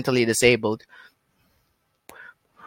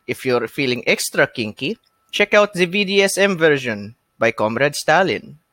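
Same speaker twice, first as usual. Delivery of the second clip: Russian ad pitch, rising into the sell; cheesy Russian accent; 2 semitones higher than usual. Acted. Podcaster plugs the joke spin-off book, cheesy Russian accent. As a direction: plug it in a mock Russian accent. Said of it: "almost stereotypical Russian accent".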